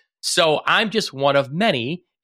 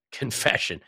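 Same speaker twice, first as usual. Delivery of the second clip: sarcastic air quotes; 4 dB quieter than usual. Real, not acted. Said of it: "air quotes".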